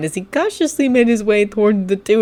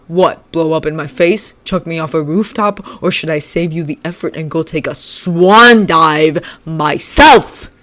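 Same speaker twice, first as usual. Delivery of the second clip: yelling back; 5 dB louder than usual. Acted. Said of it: "Shinso yelled back".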